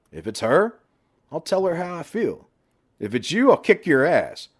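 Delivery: lightly voiced Johnny, rising to a firm warning; a friend drawing the line over his sister; protective brother. Brother warns his sister's husband, firm and rising.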